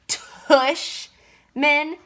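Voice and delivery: can't believe that name; incredulous repeat. A narrator's reading. Augie repeating the principal's name in disbelief. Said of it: "I repeated".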